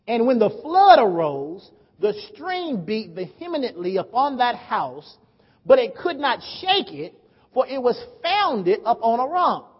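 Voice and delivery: slow, emphatic Bible reading; declaimed scripture. Real, not acted. Preacher reading the parable of the builder, measured declamation. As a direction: read the verse out deliberately to a crowd.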